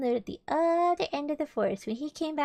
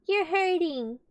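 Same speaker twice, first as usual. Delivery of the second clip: raised, higher complaint of pain; pained cry; 7 semitones higher, 4 dB louder, slower than usual. A narrator's reading. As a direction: protest as the tugged bear. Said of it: "cried Pooh".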